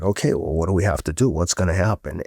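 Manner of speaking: put-on flat-toned, matter-of-fact stoic teens. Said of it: "super stoic".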